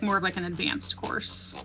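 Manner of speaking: stuffy, sniffly nose; talking through a sniffle. Real, not acted. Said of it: "Sorry, I'm sniffly".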